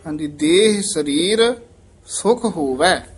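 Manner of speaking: ਦੇਹ ਸਰੀਰ ਸੁਖ ਹੋਵੈ then a stop; ਹੋਵੈ ਤੇ ਵਿਸਰਾਮ; pause after ਹੋਵੈ. Shown as a demonstration. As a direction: rest on ਹੋਵੈ. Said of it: "ਇੱਥੇ ਵਿਸਰਾਮ ਹੈ।".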